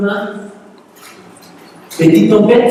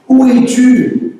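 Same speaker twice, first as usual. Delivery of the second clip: slow, higher calling voice; God calling out; 6 semitones higher, much slower than usual. Acted. God calling Adam, slow and searching. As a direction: call slowly into the garden, searching.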